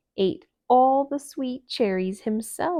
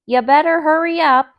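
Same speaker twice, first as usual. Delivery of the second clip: urging; 7 semitones higher, 13 dB louder than usual. Acted. Thumper urging Owl on.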